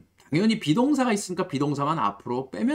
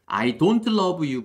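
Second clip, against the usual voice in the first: slow model sentence; 3 dB louder, much slower than usual. Shown as a demonstration. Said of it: "부정문 만들었습니다".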